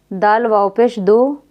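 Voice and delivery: slow spelling ending in दो, rhyming with go; majhool vowel. Shown as a demonstration. Teacher repeating majhool, दो with o. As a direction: say दो with o, not oo. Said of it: "मजहूल".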